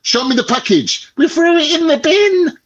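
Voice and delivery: squeaky imitation of the mechanic; high mock mechanic voice. Retold argument with mechanic.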